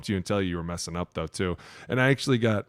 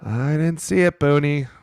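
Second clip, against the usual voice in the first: mock ref; 6 semitones higher, 6 dB louder than usual. Mocking ref.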